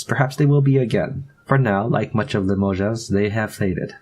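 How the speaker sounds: put-on maid speaking English with a French accent; lightly French-accented English, unhurried; French maid chatting with her young mistress, French accent. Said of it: "getting better at the French accent".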